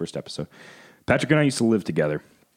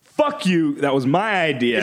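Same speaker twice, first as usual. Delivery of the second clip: retold yell; 5 semitones higher, slower than usual. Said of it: "you yelled".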